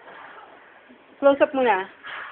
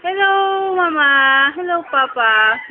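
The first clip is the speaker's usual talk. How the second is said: put-on light, slightly higher baby-talk greeting; voicing the baby; 4 semitones higher, 4 dB louder, slower than usual. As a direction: speak for the baby, sweetly pretending. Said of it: "Sabi mo". (boses-sanggol na pabiro)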